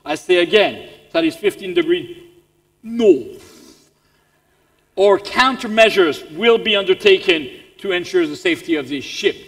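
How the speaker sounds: pompous British captain building to loud demands; commanding British naval radio voice, hammed-up and forceful; English accent. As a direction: issue an ultimatum in a British officer's accent. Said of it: "The British".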